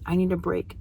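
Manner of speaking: a hint of the child copying the phrase; child's reply. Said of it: "And he says".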